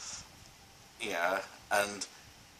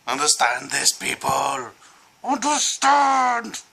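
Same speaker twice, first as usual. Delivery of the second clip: mock stern lecture; 7 semitones higher, 8 dB louder, much slower than usual. Lecturing viewers on American accents.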